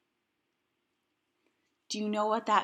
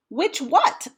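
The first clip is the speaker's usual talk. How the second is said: baffled echo; 8 semitones higher, 5 dB louder than usual. Acted. Amelia puzzled echo.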